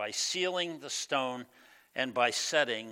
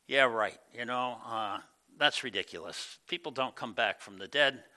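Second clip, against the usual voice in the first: mocking skeptic; 3 semitones lower than usual. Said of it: "Do you say to yourself".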